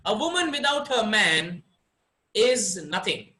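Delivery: woman without her man, pause, is nothing; slight break before is; pause after man. Shown as a demonstration. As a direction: lean on woman. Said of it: "the way I express this".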